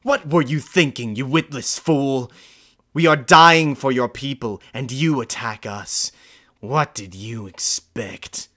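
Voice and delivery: an officer yelling at a prisoner, outraged and loud; shouting. Acted. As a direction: bellow at the fool in rage. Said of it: "He shouted".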